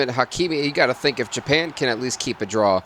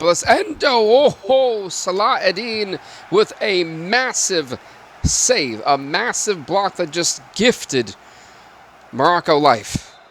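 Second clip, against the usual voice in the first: shouted, higher play-by-play call of a big save; excited commentary; 9 semitones higher, 5 dB louder, much slower than usual. Acted. Calling the save for the viewers, loud excited commentator. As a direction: yell the save like a hyped announcer.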